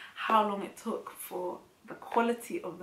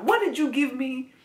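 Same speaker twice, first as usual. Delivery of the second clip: louder put-on accusing belly voice; the belly talking; 5 semitones higher, 6 dB louder than usual. Scene: her belly blaming her after too much chili, put-on accusing voice. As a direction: give the stomach a voice that complains at you. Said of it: "And it's like".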